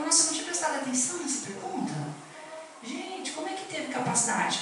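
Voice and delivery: fast, high, amazed outburst; amazed exclamation. Retold or imitated. Listening to the audiobook in the morning, amazed. Retelling own amazed reaction.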